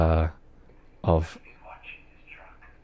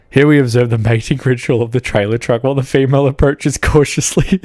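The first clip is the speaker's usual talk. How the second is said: nature documentary. Acted. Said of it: "an impression very well of ... Sir David Attenborough".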